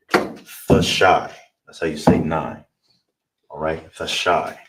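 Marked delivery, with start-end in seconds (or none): 0.1-1.3 the shy said firmly and a bit louder; emphatic demo. Shown as a demonstration. Teacher stressing the word for nine to class. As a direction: punch out the shy clearly. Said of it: "How you would say nine in Hebrew is".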